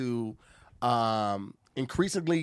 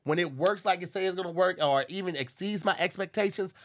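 upbeat, punchy podcast sponsor read; 3 semitones higher than usual. Acted. Host pitching a ticket app to listeners, ad read. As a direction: sell it with emphatic key words.

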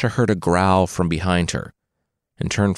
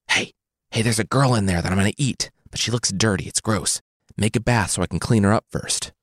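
put-on old woman whispering. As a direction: whisper like a scheming old witch. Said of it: "the witch whispered".

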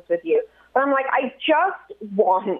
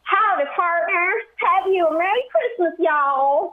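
higher-pitched, put-on redneck twang; redneck accent; 6 semitones higher than usual. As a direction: have a go at a hammed-up redneck accent. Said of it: "Give me redneck".

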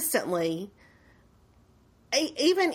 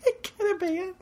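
mock agreement; 11 semitones higher than usual. Real, not acted. Joking agreement.

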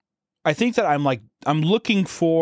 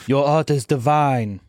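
mock French accent; 3 dB louder, slower than usual. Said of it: "I can't do a good French accent".

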